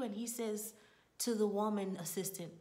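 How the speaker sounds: ordinary delivery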